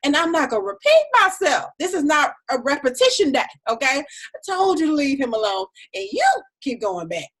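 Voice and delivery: God voicing. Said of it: "what he was saying was".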